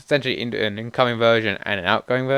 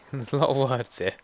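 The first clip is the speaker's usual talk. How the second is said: laughing. Real, not acted. Laughs at long list.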